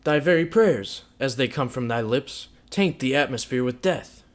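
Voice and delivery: loud, sneering mockery; bitterly mock the holy rites; loud sarcastic scorn; fiendish scorn. A narrator's reading. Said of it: "still with the same fiendish scorn".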